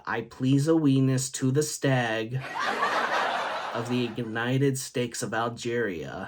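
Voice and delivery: slow, laughing mock recital; a schoolboy's slow giggly parody pledge. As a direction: recite the fake pledge slowly through a laugh. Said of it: "for example, this one time I said".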